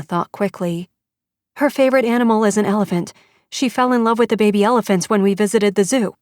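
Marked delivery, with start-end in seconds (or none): 1.6-6.1 urgent rush. Acted. Desperate mother answering fast.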